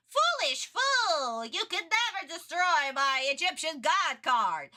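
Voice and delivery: hammed-up villain declamation, high and drawn out; Merrick. Streamer mocking the villain's catchphrase, pompous villain voice. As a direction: boast like a cartoon villain, stretching the insult. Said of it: "all Merrick is saying is".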